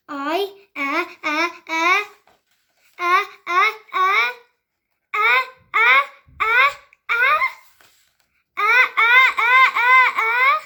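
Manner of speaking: rising hammed-up sobbing, high and loud; mock crying. Gerald crying before saying goodbye, hammed-up sobs. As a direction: build into a big fake cry. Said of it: "He's starting to cry".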